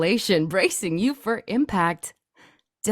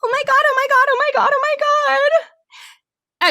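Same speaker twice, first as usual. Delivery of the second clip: much higher, louder shrieks of terror; a frightened woman screaming as gunmen burst in; stammering terrified scream; panicked screaming; 6 dB louder, faster than usual. Acted. Bystander panics again.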